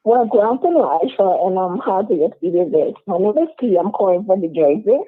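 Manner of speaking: talking through a covering; words muffled by a mask. Real, not acted. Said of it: "you have something over your mouth".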